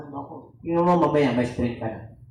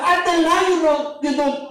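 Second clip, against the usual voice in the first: slow, solemn scripture quote, a bit higher; quoting the Bible; 7 semitones higher, slower than usual. Retold or imitated. Preacher quoting Jesus to the congregation, slow and solemn. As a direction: read it out like holy words, unhurried. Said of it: "sabi ng Bible".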